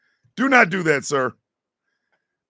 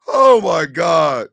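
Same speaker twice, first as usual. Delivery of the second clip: shocked shout; 6 dB louder, much slower than usual. Real, not acted. Shocked reaction.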